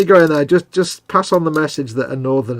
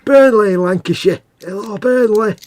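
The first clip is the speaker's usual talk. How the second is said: mock cheerful greeting; 7 semitones higher, 3 dB louder than usual.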